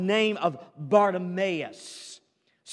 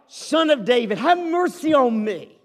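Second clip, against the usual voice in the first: raised, higher and louder plea for mercy; the blind man's desperate, louder cry over the crowd; 5 semitones higher, 6 dB louder than usual. Retold or imitated. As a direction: shout it over the crowd trying to hush you. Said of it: "and so he cried out".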